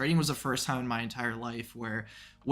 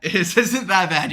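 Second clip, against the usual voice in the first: put-on French accent; 6 semitones higher, 9 dB louder, slower than usual. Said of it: "I had a couple streams with Pierre".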